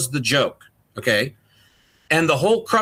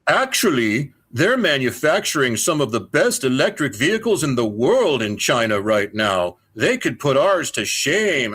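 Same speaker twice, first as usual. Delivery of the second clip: lightly voiced smug boss correcting him; a hint of a boss lecturing him; know-it-all station boss; 3 semitones lower than usual. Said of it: "He says".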